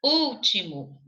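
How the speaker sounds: "Último" with the opening Ú held and stressed; stress on first syllable. Shown as a demonstration. Teacher showing where the accent goes, "Último" stressed on Ú. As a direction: lean on the Ú of "Último", then fall away. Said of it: "Acento agudo no U".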